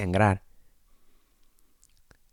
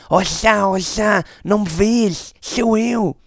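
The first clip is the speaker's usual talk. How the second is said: retold running call, much higher and louder; calling after him; 12 semitones higher, 5 dB louder, slower than usual. Narrator runs after his friend, retold calling out. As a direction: chase him down with your voice. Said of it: "sempre a chamá-lo".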